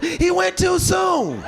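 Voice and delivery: mock wail. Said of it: "Somebody yelled out".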